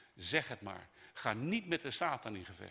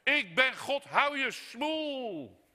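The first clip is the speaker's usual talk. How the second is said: booming high shout, last word drawn out; God losing patience; 10 dB louder, much slower than usual. Acted. Preacher playing God silencing Job, furious shout. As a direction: roar it down to silence them. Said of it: "als ik God was, zou ik zeggen".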